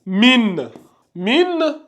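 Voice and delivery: "Min" with a clear held n; lecture sans règle. Shown as a demonstration. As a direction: say "Min" ending on a plain n, unchanged. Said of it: "il allait être lu comme ça". (« Min » avec un n net, non transformé)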